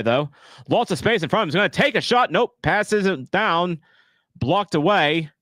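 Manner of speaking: put-on a wobbly English accent drifting toward Australian; lightly put-on English accent doing soccer play-by-play. Streamer calling the match for chat in a wobbly English accent. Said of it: "Apparently I'm Australian or Tex English".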